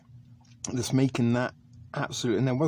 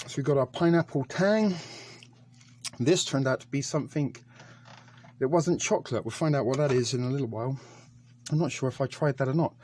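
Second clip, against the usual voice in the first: breathless after running downstairs; puffing between words; out of breath. Real, not acted. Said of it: "Sorry, I'm out of breath".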